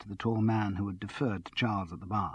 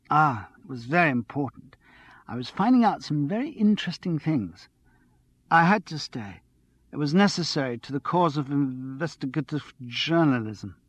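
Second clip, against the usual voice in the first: lightly voiced bubbly flatmate, higher; giddy and a little tipsy, pitched up; a hint of a breathless, excited girl; excited tipsy young woman; 4 semitones higher, 4 dB louder than usual. Andrea explains staying.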